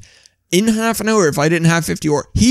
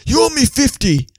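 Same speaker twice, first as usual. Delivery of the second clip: gruff demand; 9 semitones higher than usual. Retold or imitated. Landlord demanding money from a tourist, mock menacing.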